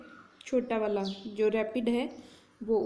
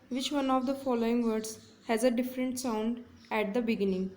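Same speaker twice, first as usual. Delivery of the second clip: slow, careful reading of an exam question; deliberate classroom read-aloud; much slower than usual. Shown as a demonstration. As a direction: read each word clearly for students. Teacher reads exam question aloud.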